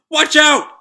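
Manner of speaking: very high, loud yell; warning shout. Acted. Shiki warning Rebecca of a falling crate, high shout.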